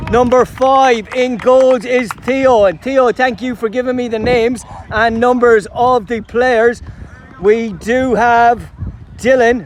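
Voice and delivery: big-occasion sports announcer introducing the teams; match commentary. Acted. Commentator presenting both teams before kick-off, live announcer delivery. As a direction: call the line-ups like a live final.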